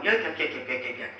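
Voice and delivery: quick repetitive yakking, lightly mocked; mock nonstop chatter; imitated chatter. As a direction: imitate someone yakking away. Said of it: "he's going".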